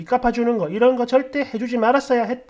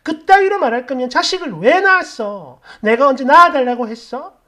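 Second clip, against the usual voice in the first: mock yell of an angry daughter, louder but not crying; raised-voice retort, hurt and accusing, only half shouted; retold tearful yelling; 2 semitones higher, 6 dB louder than usual. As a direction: imitate a daughter lashing out at mom. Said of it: "애가 막 엉엉 울면서 소리를 고래고래".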